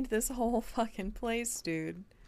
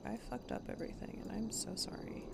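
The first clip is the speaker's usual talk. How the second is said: mock apology; 11 dB quieter, faster than usual. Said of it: "Not me being like".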